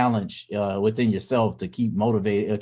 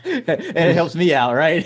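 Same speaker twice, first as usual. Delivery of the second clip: high laughing aside, words bubbling through a laugh; 7 semitones higher, 5 dB louder, slower than usual. Real, not acted. Laughing at the idea that skipping chore money pays off. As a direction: laugh out the line, pitched up.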